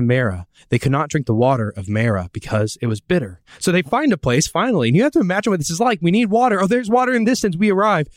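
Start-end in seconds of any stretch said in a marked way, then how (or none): 3.6-8.1 building hope. Pretend. Imagining Israel finding water.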